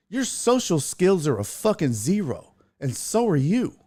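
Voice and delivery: heated but controlled retold rebuke; retold telling-off. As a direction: lay into him, re-enacting the rant. Retells telling the man off.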